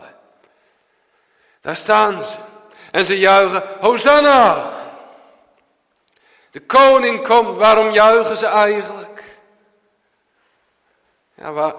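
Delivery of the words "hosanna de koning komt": loud, high cheer of Hosanna; crowd cheering. Acted. Preacher voicing the crowd greeting their king, a loud joyful cheer. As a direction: call it out like a jubilant crowd.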